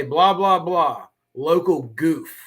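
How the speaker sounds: slow, drawn-out mock news read; mock news caption. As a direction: spell it out like a TV caption naming him. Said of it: "it should just say".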